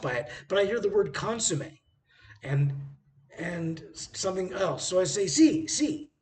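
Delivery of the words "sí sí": confused yes. Retold or imitated. Confused tourist agreeing.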